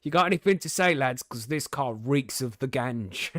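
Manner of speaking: loud mock South African accent; lightly put-on South African cop, opening loud; thick South African accent. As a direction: imitate a South African policeman pulling someone over. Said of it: "a thick South African accent".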